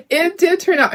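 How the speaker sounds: delighted the project worked; real relieved laugh on it did turn out; laughing with relief. Real, not acted. Laughing with relief after the reveal.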